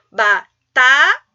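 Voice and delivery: Batata drawn out slowly, syllable by syllable, loud. Shown as a demonstration. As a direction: stretch Batata, one beat per syllable. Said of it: "a separação está correta aqui". (Batata, sílaba por sílaba e bem devagar)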